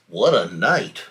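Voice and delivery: a lightly voiced mole, grumbling low; lightly voiced mole muttering about the storm. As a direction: mutter it like a fussy little mole. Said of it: "Mole mutters".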